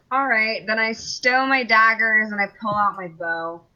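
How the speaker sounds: deflated, let-down, disappointed tone. Player taking their turn after being told they can't reach the monster, disappointed. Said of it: "You sound so disappointed".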